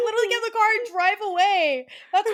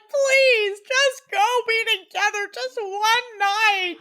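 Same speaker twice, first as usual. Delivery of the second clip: drawn-out, playful begging; hammed-up entreaty; mock pleading; much slower than usual. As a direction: plead like an invested fan. Viewers begging the couple.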